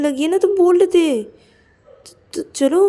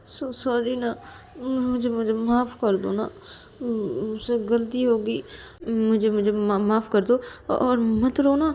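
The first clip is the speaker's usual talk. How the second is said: higher, halting apologetic pleading; pleading apology; 4 semitones higher than usual. Acted. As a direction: plead with a crying friend, stumbling over words. Acted apology to crying friend. (मिन्नत भरी, अटकती हुई माफ़ी)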